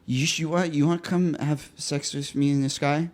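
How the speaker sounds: put-on drunken slurring. Drunk date propositions the gay waiter, slurred and stumbling. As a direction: imitate a hammered date struggling to get words out. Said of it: "they start slurring their speech".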